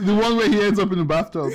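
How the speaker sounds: giggling while describing the clip; laughing. Real, not acted. Laughing as he tells his friend about the bathtub scene. Recalling funny video, laughing.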